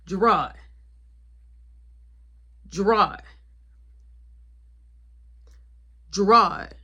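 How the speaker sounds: loud repeated calls to wake him; calling his name. Retold or imitated.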